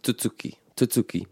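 "tutuki" stressed on the middle tu; light first syllable, stressed second in "tutuki". Shown as a demonstration. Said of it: "the stress is on the second syllable".

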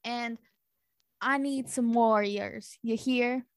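folksy country character; country twang, in no hurry; country accent. Acted. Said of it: "natives here have a country accent".

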